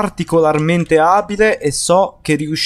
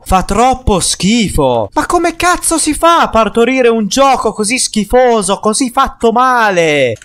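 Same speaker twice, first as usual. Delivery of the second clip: emphatic italian speech; 5 semitones higher than usual. Real, not acted. Complaint rises into a rant.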